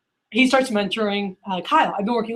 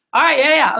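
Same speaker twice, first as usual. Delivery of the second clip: higher, excited agreement; retold eager phone reaction; Mikey; 5 semitones higher than usual. Salesman reacting to a deal before his customer, excited. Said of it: "they get so excited".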